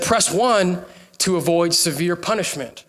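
measured recorded-warning imitation; automated message. Preacher quotes the scam recording, automated message voice. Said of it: "Then it said".

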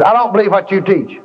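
a hint of a doubting woman; woman's voice. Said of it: "a woman's voice said".

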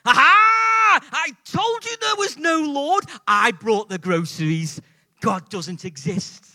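huge high shout, settling into loud declaration; triumphant gotcha shout. Acted. Atheist neighbour springing out at the lady, triumphant shout. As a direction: burst out crowing, then drop in pitch. Gloating neighbour jumps out in joke.

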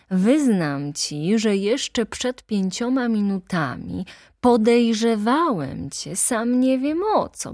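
sly, eager confidant; knowing lawyer. Acted. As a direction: win him over as an ally. Lawyer turns confidential ally.

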